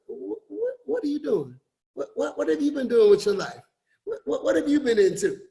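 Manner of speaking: mock the prying stammer; lightly voiced nosy onlooker; nosy questioner.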